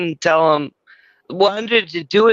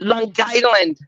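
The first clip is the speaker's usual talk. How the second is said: Long Island accent; 3 semitones higher than usual. Shown as a demonstration. Mimics Long Island pronunciation.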